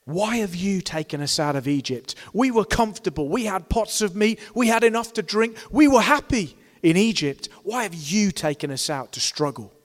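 sing-song longing for the meat pots; whining Israelites. Retold or imitated. Preacher mimics Israelites whining at Moses about Egypt. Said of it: "what the people of Israel were doing was grumbling".

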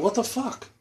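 high-pitched retold outburst; retold indignant yell. Motorcyclist to woman who hit his bike, indignant retold yell. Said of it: "I yelled at her".

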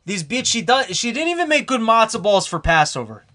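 put-on broken-English Jewish accent, lightly done; mock old Jewish man complaining. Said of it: "I'll put on more of a Jewish voice".

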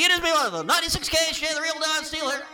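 booming radio DJ voice; old-time radio announcer. Retold or imitated. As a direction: announce it like a classic radio jock. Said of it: "those old-time radio announcers".

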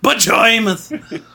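put-on slow, laughing Yiddish accent on Bejoymoth. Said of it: "you just did it with a Jewish accent".

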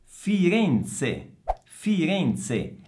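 high, deliberate FIRENZE with ts in ZE; Z as in pizza. Shown as a demonstration. Teacher models the city for students, FIRENZE with ts. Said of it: "Attenzione al suono della Z".

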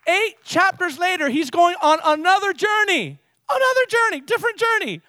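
high, urgent pulpit delivery; excited preaching. Real, not acted. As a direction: build suspense for the congregation, ringing out. Preaches at full force.

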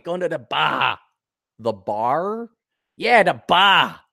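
imitating Australian non-rhotic bar; Australian "bah" for bar; Australian accent. Shown as a demonstration. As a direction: drop the R in bar, Australian style. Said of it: "They don't pronounce the R's".

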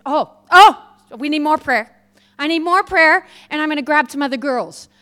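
lightly voiced eager woman; eager plea. Woman begging for more prayer.

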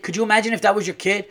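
pitched high and quick with outrage; indignant. Real, not acted. Ranting owner demands empathy over his injured dog, high and fast. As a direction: hurl the question at the hospital. Angry rant about hurt dog.

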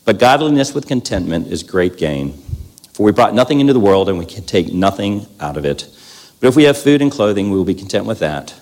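measured reverent reading; scripture reading. Acted. Speaker reads Luke to the church, measured scripture reading. Reads Timothy passage aloud.

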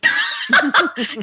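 amused high laugh. Real, not acted. Laughs at mother's request.

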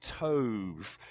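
tov said low and soft, drawn out; pronouncing tov. Shown as a demonstration. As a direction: tov low and resonant, savouring it. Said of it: "One more time".

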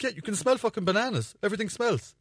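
high-pitched retold exasperation; imitated exasperated wife. Retells exasperated wife in banana row.

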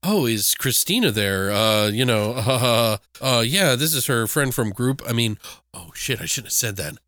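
lightly acted hesitant, bashful caller; shy caller. Killer posing as her friend from group, mildly shy. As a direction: stumble shyly, as if letting something slip. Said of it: "shy kind of voice where he's like".

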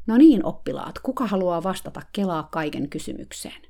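lightly hammed-up lecturing coach; mock coach addressing pupils. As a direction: dodge the question by calling on the class. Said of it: "väisti kysymyksen sanomalla".

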